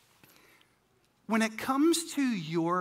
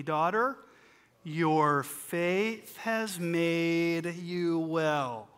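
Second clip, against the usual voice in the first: Daughter, your faith has made you well, drawn out very slowly; slow call-and-response; 2 semitones lower, much slower than usual. Shown as a demonstration. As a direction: lead the congregation through it slowly. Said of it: "Say it with me".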